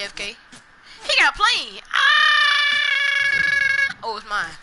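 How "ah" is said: sudden high shout; startled shout. Real, not acted. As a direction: yelp out loud and high. Sudden shout during fight.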